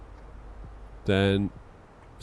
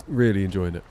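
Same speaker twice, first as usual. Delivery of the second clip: put-on Southern American accent. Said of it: "The southerly American accent".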